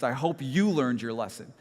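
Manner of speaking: "you" leaned on to aim the remark; stress on YOU. Retold or imitated. Neighbour turning his comment on the rider, stress on "you". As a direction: point the word "you" straight at the listener. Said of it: "he then directs his, his comment to me".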